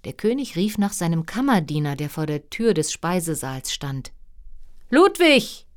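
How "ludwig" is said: high, loud royal summons; calling out. A narrator's reading. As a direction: shout for a servant through the door. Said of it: "rief er".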